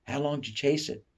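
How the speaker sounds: put-on lady in the crowd asking the boy; curious lady. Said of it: "the lady asks again".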